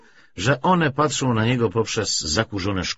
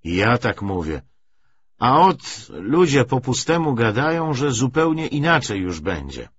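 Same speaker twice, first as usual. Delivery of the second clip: lightly voiced old forester; 3 semitones higher, 3 dB louder than usual.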